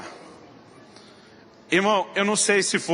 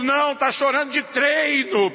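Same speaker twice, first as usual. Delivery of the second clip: sarcastic retort; 8 semitones higher, slower than usual. Retold or imitated. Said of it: "a vontade é gritar pra Deus e o mundo".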